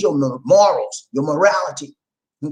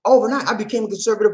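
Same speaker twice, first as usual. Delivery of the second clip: mock quote; 4 semitones higher, faster than usual. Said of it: "she said it herself".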